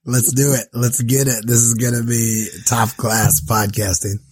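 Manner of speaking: raspy voice from the flu; hoarse, worn-out sick voice. Real, not acted. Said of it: "I sound like Wolfman Jack".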